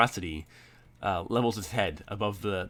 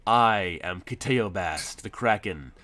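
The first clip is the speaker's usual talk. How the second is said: booming Kraken voice; slower than usual. Acted. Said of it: "He goes".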